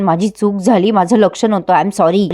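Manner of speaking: lightly acted, low-pitched sorry; reluctant-looking apology, retold. Sagar apologises to the girl's parents, subdued imitation. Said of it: "आणि सागरच्या चेहऱ्यावरचं reaction".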